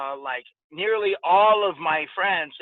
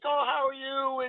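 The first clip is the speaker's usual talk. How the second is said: doting dad; 8 semitones higher, 4 dB quieter than usual. Retold or imitated. Dad answering his kids' greeting.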